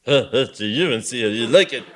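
high jeering ha ha; spirited mock laugh. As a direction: jeer back with spirit. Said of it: "rejoined the bishop with spirit".

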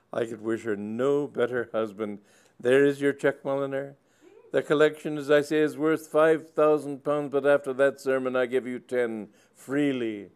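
put-on high, loud old gentleman overcome with emotion; an elderly squire gushing through tears; tearful old squire. Sir Leopold to the curate, gushing high and loud.

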